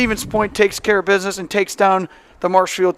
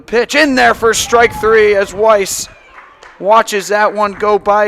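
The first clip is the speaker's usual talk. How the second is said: a rising, louder call as strike three goes by; strikeout call; 2 semitones higher, 6 dB louder, slower than usual. Real, not acted. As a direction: lift the voice for the strikeout, a touch slower at the end. Strikeout call in live play-by-play.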